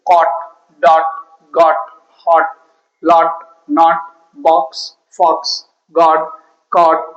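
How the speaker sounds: Caught, dot, got, each with an open "o" vowel; one isolated word at a time, hot, lot, not, pausing after each; short O drill. Shown as a demonstration. Teacher drilling the O sound, Caught to god with open "o". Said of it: "that is pronunciation of the O".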